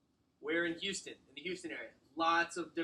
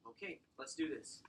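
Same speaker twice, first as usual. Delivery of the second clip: softer, resigned-sounding agreement; after a sigh; 6 dB quieter than usual. Retold or imitated. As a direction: imitate someone settling down after a sigh. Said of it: "You'll see some people go".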